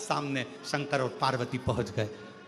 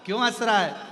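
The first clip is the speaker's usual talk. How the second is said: louder, higher worried mother's call; 4 semitones higher, 6 dB louder than usual. Acted. Mother calling her laughing baby, puzzled and loud.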